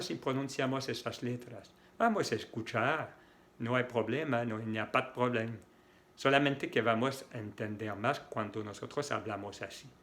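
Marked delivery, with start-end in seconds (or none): 4.6-5.6 "il n'y a pas de problème" run together quickly, "pad problème"; fast, fluid speech. Shown as a demonstration. Teacher showing how natives talk, quick and fluid. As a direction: glide quickly through it, dropping the E of "de". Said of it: "Es más rápido, más fluido".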